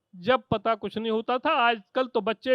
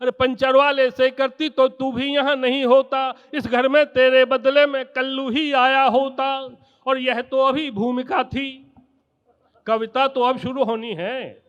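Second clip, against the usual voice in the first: poem recitation; 3 dB louder than usual. Acted. Kavi sammelan poem recitation.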